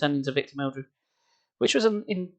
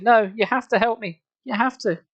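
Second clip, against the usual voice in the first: high furious insistence; 8 semitones higher than usual. Acted. Rage exploding.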